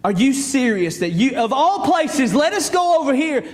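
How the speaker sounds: disbelief rising in pitch; incredulous questioning. Acted. Peter voiced questioning Jesus.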